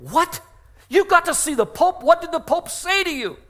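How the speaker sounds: high, incredulous questions; disbelief. Retold or imitated. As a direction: shoot up in pitch, astonished. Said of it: "couldn't believe it".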